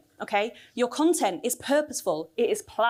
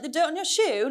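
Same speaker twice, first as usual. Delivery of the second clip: higher, incredulous comeback; mock indignation; 4 semitones higher than usual. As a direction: throw it back as an affronted question. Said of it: "They're really rude".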